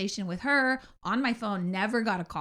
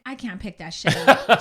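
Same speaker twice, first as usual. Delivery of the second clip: laughing; 8 dB louder than usual. Retold or imitated. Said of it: "I'm like".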